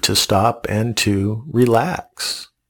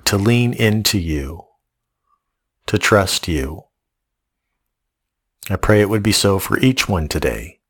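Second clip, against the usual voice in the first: lower, hushed closing prayer; 3 semitones lower than usual. Acted. Pastor praying for the congregation after the sermon, hushed and lower. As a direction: pray it gently over the room.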